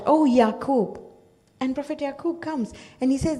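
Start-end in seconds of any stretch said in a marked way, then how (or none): 0.0-1.0 louder, a drawn-out call of the name. Retold or imitated. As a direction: call out as if across a valley. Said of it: "he's calling out".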